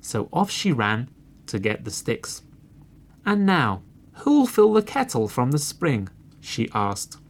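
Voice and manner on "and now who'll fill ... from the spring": high-pitched busy hen; storybook hen asking for help; little red hen. A narrator's reading. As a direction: call out the question high.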